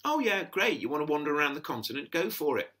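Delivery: a hint of an easygoing mum waving him off; breezy mum. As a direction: mum cheerfully giving her blessing, mildly imitated. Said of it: "There's a lovely, um, kind of".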